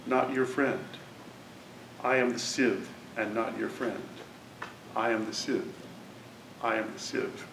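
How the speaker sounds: poem reading. Acted. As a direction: let the repetitions fall like a chant. Reads the poem aloud.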